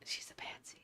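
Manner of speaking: soft conspiratorial whisper; sly whispered joke; whispered pun. Pretend. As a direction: lean in and whisper the punchline.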